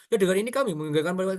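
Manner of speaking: gabbling the opening like someone racing; light imitation of hurried mumbling; mock rushed reading. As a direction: parody of a speaker who talks too fast. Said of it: "kayak orang ngebut".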